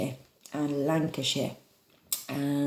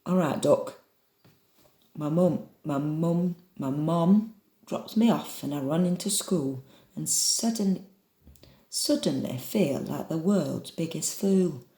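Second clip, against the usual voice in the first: imperfect put-on northern English; northern accent. Shown as a demonstration. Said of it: "practice my northern".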